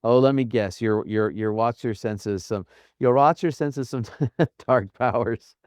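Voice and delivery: put-on a light, laughing stab at a Jamaican accent; mock Jamaican accent, half-joking; feigned Jamaican accent. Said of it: "in this feigned accent".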